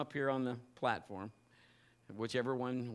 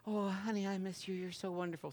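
doting wife; 4 semitones higher, 6 dB quieter than usual. Acted. Wife voiced in story.

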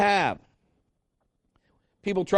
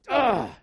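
short exasperated "ugh"; frustrated groan; 3 semitones higher than usual. Acted. Preacher showing how frustrated you get, exasperated groan. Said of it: "You just get so frustrated".

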